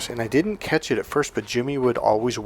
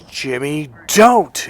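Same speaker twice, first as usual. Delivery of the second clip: retold yell; 3 semitones higher, 5 dB louder, much slower than usual. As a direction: imitate a friend's sudden loud warning. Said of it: "Marlon was yelling".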